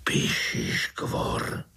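slow, breathy whispered name; hushed frightened whisper of the monster's name. A narrator's reading. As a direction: whisper it in fear, slowly. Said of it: "zašeptal strýček".

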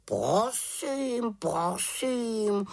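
high, huffy raven voice; miffed, high croaky raven; offended. A narrator's reading. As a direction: say it in a huff, like an affronted bird. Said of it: "urazil se Abraxas".

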